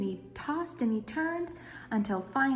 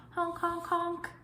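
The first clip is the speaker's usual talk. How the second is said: goose honks; 8 semitones higher, slower than usual. Acted. Goose honk in story.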